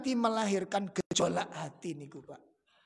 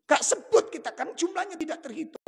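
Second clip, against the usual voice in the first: laughing; 8 semitones higher, 8 dB louder than usual. Real, not acted. Laughing while preaching.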